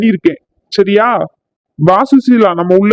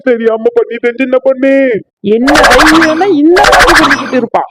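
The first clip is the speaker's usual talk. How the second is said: furious wife; 4 semitones higher than usual. Acted. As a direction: yell at the husband.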